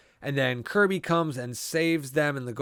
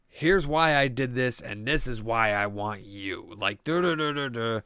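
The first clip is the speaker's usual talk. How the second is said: mock villain explanation; 2 semitones lower than usual. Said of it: "they keep it very fucking simple as to".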